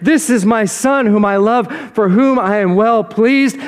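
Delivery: slow, grand proclamation from heaven; proud booming voice of God. Retold or imitated. God proclaiming his son before everyone, slow and grand. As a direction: announce it slowly to the whole crowd. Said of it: "God says in a voice for everyone".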